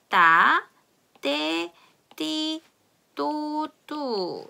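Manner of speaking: "따, 떼, 띠" with tense tt; hard tt syllables, one by one. Shown as a demonstration. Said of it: "쌍디귿으로 발음이".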